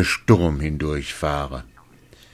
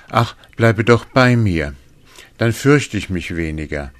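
pleading; 4 semitones higher, 5 dB louder than usual. Acted. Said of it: "er bat das Männchen".

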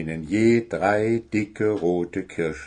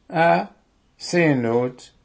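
higher "ah", then settling; belated understanding; 7 semitones higher, slower than usual. A narrator's reading. Owl finally understands, mildly enlightened. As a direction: let it dawn slowly. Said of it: "begriff Willi endlich".

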